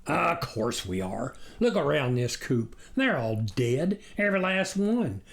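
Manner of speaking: lightly voiced despairing farmer; upset farmer. Farmer lamenting to his wife, distraught.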